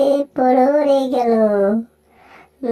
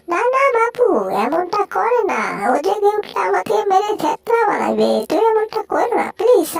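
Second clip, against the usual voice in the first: high, anxious cartoon pleading; pleading cartoon character; 5 semitones higher than usual. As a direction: beg not to do it in a high character voice.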